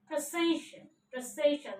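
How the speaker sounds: "Precision" with the second syllable stressed. Shown as a demonstration. Teacher modelling the word for learners, second-syllable stress in "Precision". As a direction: say "Precision" as pruh-SE-shun, stress from the S. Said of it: "stress mark over S".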